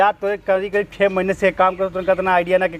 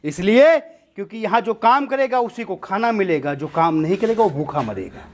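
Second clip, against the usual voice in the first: gang boss's speech. Acted. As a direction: answer a captive like a boss on a podium. Boss answers a captive. (सरगना का भाषणनुमा जवाब)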